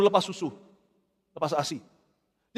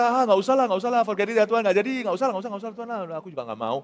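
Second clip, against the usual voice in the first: dismissive brush-off; 3 semitones higher than usual. Retold or imitated. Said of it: "hanya tepis gitu aja".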